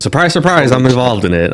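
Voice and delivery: high dry "surprise, surprise"; mock-surprised, self-mocking; sarcastic. Real, not acted. Sarcastic about his own trades.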